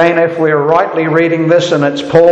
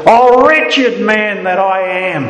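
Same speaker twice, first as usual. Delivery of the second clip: anguished cry of Paul; 7 semitones higher than usual. Acted. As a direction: voice Paul's despair from the gut. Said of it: "he says".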